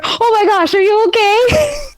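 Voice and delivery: worried rush. Acted. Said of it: "He runs over".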